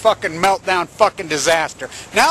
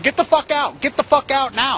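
retold scream; 4 semitones higher than usual. Commentator recalling his screaming at the news, retold scream. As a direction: re-enact yelling at the TV without full volume. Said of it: "And I'm screaming".

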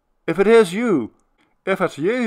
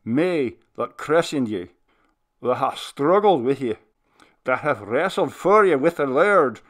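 put-on much louder, higher commanding old minister; 5 semitones higher, 9 dB louder than usual. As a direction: order the spirit home with full authority. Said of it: "calling out the last words in a voice of command".

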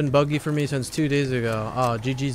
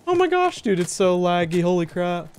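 high, loud frustrated outburst; excited outburst; 6 semitones higher, 5 dB louder than usual. Real, not acted. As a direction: squeal it out at the lag. Reacting to lag.

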